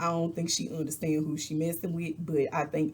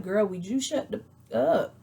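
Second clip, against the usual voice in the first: retold exasperation. Quotes Sheree saying the same.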